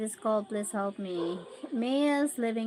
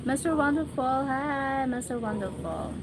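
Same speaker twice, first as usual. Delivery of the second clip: higher, louder call-out to a viewer; excited greeting; 5 semitones higher, 3 dB louder than usual. Real, not acted. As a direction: greet a newcomer brightly, high and loud.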